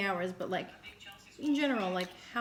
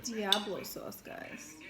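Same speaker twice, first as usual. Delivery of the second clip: sexy voice; 4 dB quieter, much slower than usual. Pretend. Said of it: "That's how Kaki talks".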